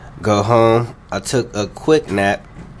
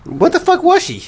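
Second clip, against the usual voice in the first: mock squeal; 3 dB louder than usual.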